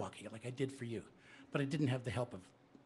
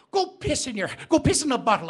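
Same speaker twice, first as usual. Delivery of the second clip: rude retort; 7 semitones higher, 7 dB louder than usual. Acted. Neighbour insults Molly.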